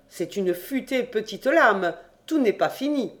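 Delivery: lightly voiced Jean taunting; scoffing cousin Jean. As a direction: belittle him with a sneer.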